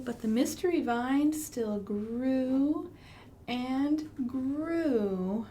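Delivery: storybook lilt with a whispered middle; reading to children. Acted. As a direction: read it like a bedtime rhyme.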